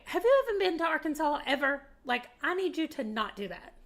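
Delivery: offended. Retold or imitated. Southerner voicing what she wanted to tell the man, offended. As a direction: imitate an affronted telling-off, starting high and quick. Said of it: "I was so offended by this man".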